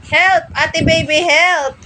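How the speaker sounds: high playful mock cry for help; pretend cry for help. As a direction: call out to big sister as if in danger. (kunwaring humihingi ng tulong sa mataas na boses)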